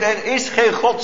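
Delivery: hint of a taunting inner voice; mocking inner voice. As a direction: state it like a doubter's sneer. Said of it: "zeggen ze van binnen".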